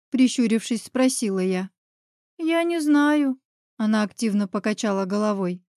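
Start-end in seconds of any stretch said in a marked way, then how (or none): 2.4-3.4 put-on small scared child. Frightened child answering.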